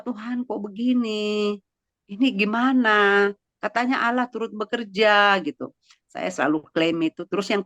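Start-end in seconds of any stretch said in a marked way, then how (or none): 0.0-5.3 retold tearful prayer. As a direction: imitate a mildly tearful, questioning prayer. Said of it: "Nangis gini, berdoa". (meniru doa sambil menangis)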